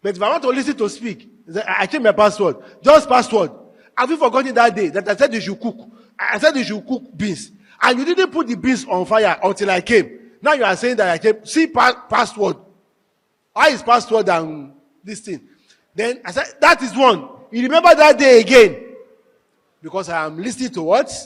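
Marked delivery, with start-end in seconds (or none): 1.7-15.5 loud, heated scolding about the password; mock a husband's annoyed tirade; retold angry complaint. Husband scolds his wife about the forgotten beans, loudly annoyed. 16.6-18.8 loud accusing outburst; retold angry complaint. Husband reminds his wife of that day, loud and accusing.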